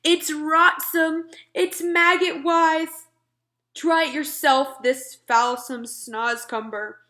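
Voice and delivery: high, loud, slow disgust. Acted. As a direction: relish every gross word. Giant disgusted by snozcumber.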